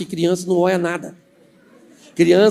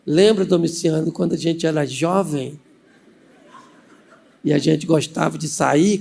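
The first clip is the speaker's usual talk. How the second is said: sweet coaxing; 3 semitones lower than usual. Acted. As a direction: gently remind a husband of courting days. Aunt sweet-talks husband with memories.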